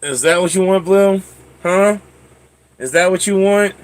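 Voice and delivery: high, sing-song coo to a dog; pet talk. Real, not acted. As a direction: tease the dog with a bright, lifted voice. Cooing to dog Blue.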